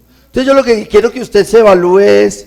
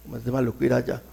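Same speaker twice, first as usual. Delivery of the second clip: whiny self-pity; 4 semitones lower, 11 dB quieter, faster than usual. Pretend. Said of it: "Estoy pensando".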